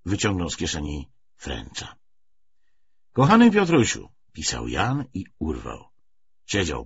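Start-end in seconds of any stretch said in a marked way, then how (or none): 3.1-4.1 a touch of emotion, higher; lightly voiced Jan. A narrator's reading. Jan writing to his brother Piotruś, lightly voiced. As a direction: lightly voice the hesitant letter opening.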